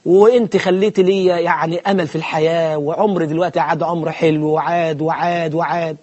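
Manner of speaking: lightly voiced dreamy suitor; mock lovestruck. Preacher mocking a young man sweet-talking a girl. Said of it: "يقعد قدامها كده بخشوع".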